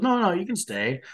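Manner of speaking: high-pitched imitation of Donna; acted Donna quote. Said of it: "She goes".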